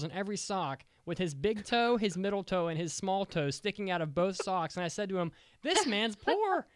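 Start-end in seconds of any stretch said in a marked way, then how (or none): 5.6-6.7 exaggerated exasperation. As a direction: stretch it out like a fed-up roommate. Retelling what he told roommate.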